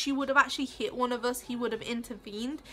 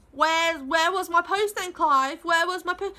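neighbour demanding post; 4 semitones higher, 5 dB louder than usual. Retold or imitated. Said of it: "Ali's like".

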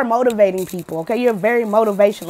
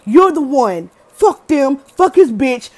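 higher and louder, sassy cheerleading; hyping friend; 3 semitones higher, 6 dB louder, slower than usual. Retold or imitated. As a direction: back up your friend like on the call. Quoting the song's phone call.

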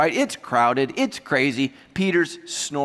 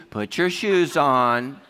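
slow, word-by-word exasperation; irritated; 3 semitones lower, much slower than usual. Acted. Angel dressing sleepy Peter, slow and irritated. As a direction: spell it out as if to a toddler. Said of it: "the angel is totally irritated at this point".

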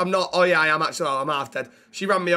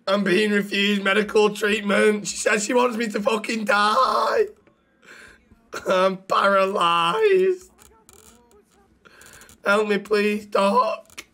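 slow, slightly raised pleading; 3 semitones higher, slower than usual. Acted. Injured patient begging the doctor for treatment, slow and pleading. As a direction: drag the words out like a wounded man begging.

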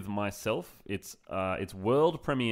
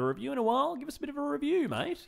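much higher, fast ocker pleading; ocker Aussie voice; faster than usual. Acted. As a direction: beg like a broad Aussie bloke.

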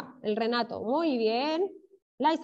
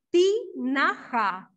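"tinaja" very slowly as ti, na, ja; syllable by syllable; much slower than usual. Shown as a demonstration. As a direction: separate each syllable of "tinaja" clearly. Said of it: "las sílabas de tinaja". ("tinaja" muy lento, separando las sílabas)

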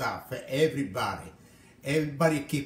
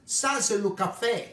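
put-on French-accented protest; 5 semitones higher than usual. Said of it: "He said to me".

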